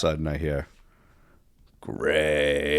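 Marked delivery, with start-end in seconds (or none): 1.8-2.8 long drawn-out low Gray; retold drill-instructor call. Drill instructor spotting his recruit in the barbershop, drawn-out call. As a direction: stretch the name out like a distant summons.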